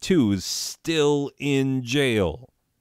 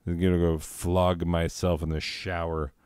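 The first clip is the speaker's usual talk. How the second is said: mock shame; 4 semitones lower than usual. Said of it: "cower in shame".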